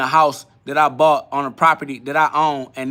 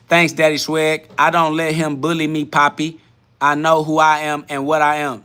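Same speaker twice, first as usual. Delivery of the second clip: lightly imitated accent of a commenter; a touch of mock accent; Demon Time's accent. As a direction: read the comment with a hint of a put-on accent. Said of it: "I didn't say it in that accent".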